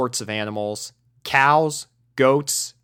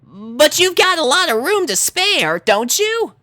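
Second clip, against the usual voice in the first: high, loud, insistent; raised insisting pony voice; pressing Rainbow; 5 dB louder than usual. Acted. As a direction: push the point.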